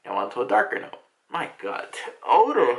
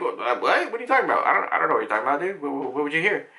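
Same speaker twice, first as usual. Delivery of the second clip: tag; much faster than usual. Retold or imitated. Dad feigns ignorance, stammering.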